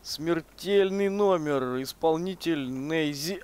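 slow, drawn-out showman announcement; booming circus ringmaster. Pretend. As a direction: announce the death-defying act. Announcing his own stunt jump.

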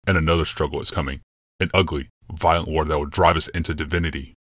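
a hint of a brooding emperor, calm and certain; grave Yalmoth. Yalmoth's lines in the story.

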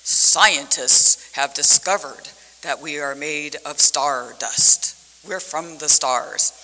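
loud, slow, grand planetarium narrator; booming voice. Retold or imitated. Planetarium show narrator announces to the audience, booming voice. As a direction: boom it out slowly, stretching the words. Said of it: "this big booming voice".

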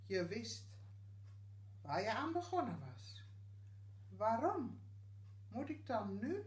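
poem recital in short phrases with clear pauses; gedicht voordragen. Acted. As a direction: recite it line by line, pausing after each phrase. (gedicht voordragen met pauzes)

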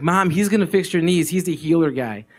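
high, laughing call to mom; excited announcement. Retold or imitated. Daughter excitedly tells her mom the healer will fix her knees. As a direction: burst out the news with a laugh.

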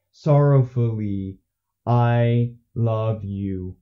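slow, emotionless alien voice; drawn out flat creature reading; Hanar from Mass Effect. Retold or imitated. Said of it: "become a Hanar from Mass Effect and say".

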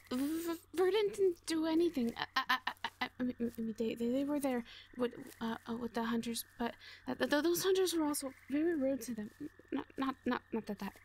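put-on anxious girl tripping over every word; nervous stammer. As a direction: stammer it out, scared of being blamed. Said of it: "She's a nervous one".

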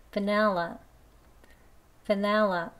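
"Vanilla" said slowly and carefully, vowel by vowel; slow demo. Shown as a demonstration. Teacher repeating "Vanilla" slowly for the class. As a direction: take "Vanilla" nice and slow. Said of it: "천천히 두 번 해볼게요".

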